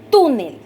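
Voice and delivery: "Túnel" with a strong hit on TÚ; stress on penultimate syllable. Shown as a demonstration. Teacher asking students to hear the accent, "Túnel" stressed on TÚ. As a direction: punch TÚ in "Túnel", let "nel" fall. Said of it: "dónde se oye el golpe de voz".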